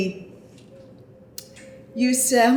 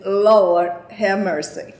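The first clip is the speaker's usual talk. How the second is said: catchphrase. Shown as a demonstration. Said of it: "my favorite word to say is".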